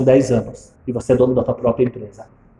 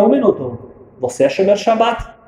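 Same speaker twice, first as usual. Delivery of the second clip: wife's indignant voice; 8 semitones higher than usual. Retold or imitated. Wife questions the visitor, high and indignant. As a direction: voice the suspicious wife, pitched up. Wife confronts donor, raised voice.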